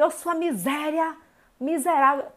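drawn-out scornful put-down; slow scornful insult. Shown as a demonstration. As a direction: stretch the insult slowly. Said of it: "Fala assim". (xingamento arrastado e desdenhoso)

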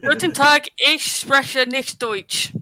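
slow, halting fake German; slow, mock-German read. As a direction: read it out slowly like a tourist. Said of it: "Stubbs, try and read it".

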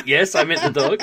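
high, loud, through a laugh; a vet laughing at the confused owner, high and loud; laughing reply. Retold or imitated. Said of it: "she was like".

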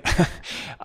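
soft, breathy little laugh; an amused little chuckle; light chuckle. Acted. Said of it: "Evan laughed lightly".

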